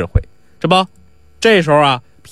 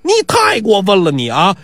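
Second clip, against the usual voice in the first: higher-pitched aggrieved complaint; acted indignation; indignant protest; 6 semitones higher than usual. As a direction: complain as the wronged victim. Trickster protests being hit.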